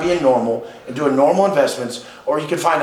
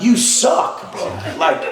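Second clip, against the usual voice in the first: laughing tease; 2 semitones higher, slower than usual. Real, not acted. Mocking his older friend's slow progress, laughing. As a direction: rib him through a laugh.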